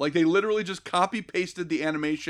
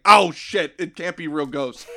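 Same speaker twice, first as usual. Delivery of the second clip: loud sudden mock alarm; mock panic; 5 dB louder than usual. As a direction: blurt it out in fake panic. Mocking the writers' panic.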